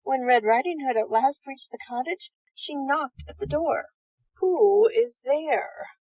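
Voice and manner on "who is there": slow, drawn-out wolf question; wolf asking. Acted. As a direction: stretch each word out like a sly wolf at the door. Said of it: "asked the wolf".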